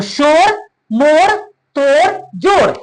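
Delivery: शोर, मोर, तोड़, जोड़ each said short, vowel not held; short unstretched vowel. Shown as a demonstration. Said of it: "हमने खींचा नहीं".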